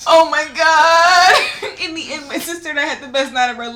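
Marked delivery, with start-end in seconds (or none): 0.1-1.7 high, loud, very drawn-out wail; laughing sing-song exclamation; fangirl swoon. Real, not acted. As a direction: stretch it out, almost sung, overwhelmed. Fangirling over seeing the idol.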